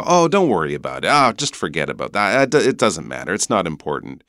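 quick, casual brushing-off; making light. Pretend. Teacher brushing off someone's hurt feelings, dismissive. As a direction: wave it away as no big deal. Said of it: "doing it in a not serious way".

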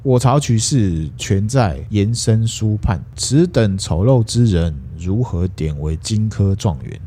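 slow, measured classical quote; slow recitation. Acted. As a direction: recite the emperor's words slowly. 皇帝用文言发话. (缓慢诵读文言)

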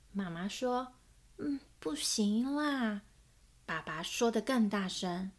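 lively picture-book reading with voiced characters; story narration. A narrator's reading. Narrator reading a children's book aloud, storytelling voice. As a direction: read it like a storyteller to small children.

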